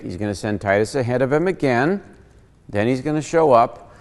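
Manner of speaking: usual speaking voice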